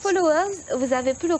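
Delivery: high, loud call to the viewers; excited call-out. Real, not acted. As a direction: hail the audience with energy. Host calls out to the audience. (interpellation enjouée des abonnés)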